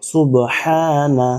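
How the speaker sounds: সুবহানা slow, with a stressed breathy ha. Shown as a demonstration. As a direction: hiss out the ha in সুবহানা. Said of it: "একদম ফ্যাস ফ্যাস একটা শব্দ হবে". (সুবহানা-য় ফ্যাসফ্যাসে হা চাপ দিয়ে)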